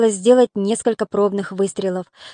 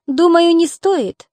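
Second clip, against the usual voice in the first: slow, higher-pitched gentle answer; mildly soft, higher voice; soft reply; 6 semitones higher, slower than usual. A narrator's reading. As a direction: decline gently, taking your time. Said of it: "мягко ответила девушка".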